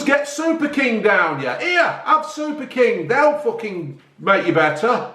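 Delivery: slow, lightly voiced sarcastic doctor pushing cigarettes; a hint of a cheerful quack selling smokes; mock doctor. Pretend doctor telling Hitler to smoke, slow and mocking. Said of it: "What he should have said was".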